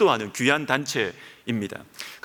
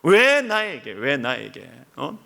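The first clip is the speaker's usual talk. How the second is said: bitter why me lament, raised; resentful complaint; 4 semitones higher, slower than usual. Retold or imitated. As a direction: cry out the grievance at God. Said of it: "하나님 앞에 막 원망을 하는 것입니다".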